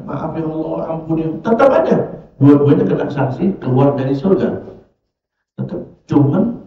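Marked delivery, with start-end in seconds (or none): 0.0-1.3 humble apology. Retold or imitated. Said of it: "yang satu mengatakan".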